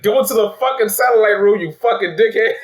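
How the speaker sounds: loud, high mock-furious order; imitated snapping. Lady snapping at one dude, imitated angry yell. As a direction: snap it like a movie boss cussing someone out. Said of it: "snapped on that one dude".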